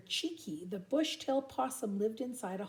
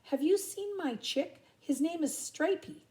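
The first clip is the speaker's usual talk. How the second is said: worried emu dad; 7 semitones higher than usual. Acted. Worried emu father asking.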